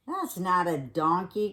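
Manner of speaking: mild indignant protest; indignant cry. Acted. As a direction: object gruffly. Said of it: "cried Bear".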